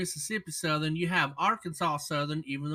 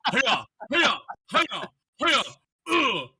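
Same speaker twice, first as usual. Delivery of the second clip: high, loud goofy NPC greeting; hammed-up default character greeting; mock default voice; 7 semitones higher, 8 dB louder, slower than usual. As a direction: parody a generic game character. Mocking a default video game voice.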